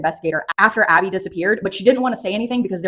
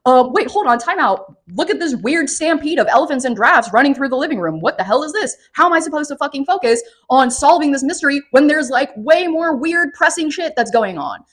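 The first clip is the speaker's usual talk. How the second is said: puzzled detective; 6 semitones higher than usual. Retold or imitated. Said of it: "and I'm like".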